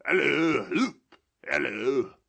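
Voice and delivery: high, loud hail; excited call. A narrator's reading. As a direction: shout across to Friday. Calling to Friday in fantasy.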